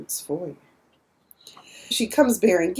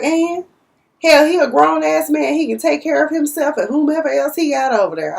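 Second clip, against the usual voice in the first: dismissive Aunt Vi; 5 semitones higher than usual. Retold or imitated. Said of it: "Aunt Vi was like".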